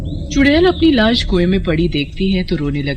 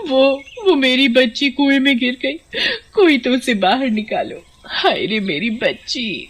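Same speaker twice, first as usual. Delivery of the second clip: higher, stammering fake grief for the villagers; a put-on lament to put on a show; staged crying; 6 semitones higher than usual. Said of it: "देखो तो कैसे गांव वालों को रोकर दिखा रही है".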